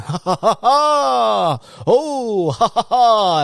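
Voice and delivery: high, loud imitated guffaws; dads laughing. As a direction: ham up a crowd of dads cracking up.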